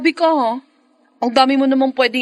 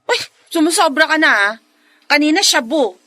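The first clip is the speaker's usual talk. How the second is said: playful protest; 2 semitones higher than usual. Acted. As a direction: push back in mock offense. Fiancée protests being compared to animals. (pabirong pagtatampo, palakas)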